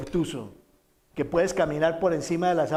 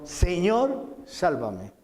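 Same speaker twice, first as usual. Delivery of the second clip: mock desperate cry; 2 semitones higher, much slower than usual. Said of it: "Entonces gritó".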